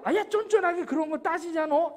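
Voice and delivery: acted exasperation at nitpicking; squabbling. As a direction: scold a petty friend in a playful quarrel. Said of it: "이렇게 또 싸워요".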